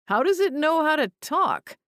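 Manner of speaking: high, astonished man's question; astonished exclamation. A narrator's reading. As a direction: blurt it out in shock. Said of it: "Garth exclaimed".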